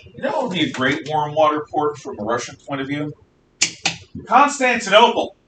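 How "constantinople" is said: dramatic reveal. Acted.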